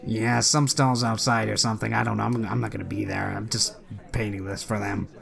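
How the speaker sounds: acted indifference, sinking as it goes; non-committal. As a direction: shrug it off as none of your concern. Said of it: "His non-committal a-, nature".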